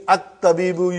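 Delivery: At-tabibu opened on a clear glottal A; hamza pronounced. Shown as a demonstration. Teacher showing hamza at the sentence beginning, sounded At-tabibu. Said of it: "You pronounce hamza in the beginning".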